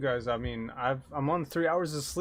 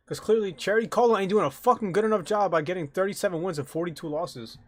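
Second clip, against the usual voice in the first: loud mock rant; 5 semitones higher, 7 dB louder than usual. Real, not acted. Ranting about a bad player.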